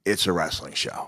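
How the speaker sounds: quoting himself, giving in; own concession. Retold or imitated. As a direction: concede it, understated. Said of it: "And I went".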